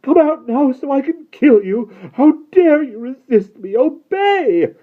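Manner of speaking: high, full-voiced furious yell; high-pitched tyrant's tirade; enraged shouting. A narrator's reading. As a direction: shout in a rage, commanding. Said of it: "and he shouted".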